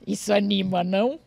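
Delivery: joking remark between laughs; amused irony. Real, not acted. Joking to listeners about harsh criticism, amused and ironic.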